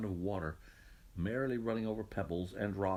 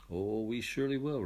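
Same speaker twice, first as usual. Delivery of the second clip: a touch of eager promise; lightly eager, quick to agree; eager angels; 4 dB louder than usual. Acted. Angels promising God eagerly, a touch eager. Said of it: "replied the angels eagerly".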